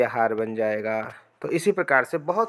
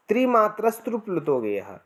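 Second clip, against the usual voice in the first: reciting a shloka; 6 semitones higher than usual. Shown as a demonstration. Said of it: "ये श्लोक भी आता है".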